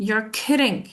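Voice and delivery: unexcited disbelief. Shown as a demonstration. Teacher contrasts it with excitement, unimpressed disbelief. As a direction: say it without excitement, doubting. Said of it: "but if I say".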